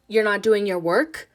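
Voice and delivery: a tight scolding from Ma; tight, accusing mother. Acted. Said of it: "Ma's voice is tight".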